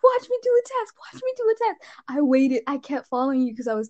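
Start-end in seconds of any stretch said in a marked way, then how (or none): 0.0-1.8 high laughing mock of the line; mock the friend while cracking up; high giggly imitation; laughing mimicry.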